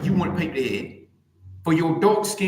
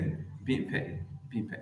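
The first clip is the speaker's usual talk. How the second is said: whispered taunt; 3 semitones lower, 10 dB quieter than usual. Acted. Streamer whispering a taunt at Michelle Obama. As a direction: breathe it out as a whispered jab. Repeating the taunt under breath.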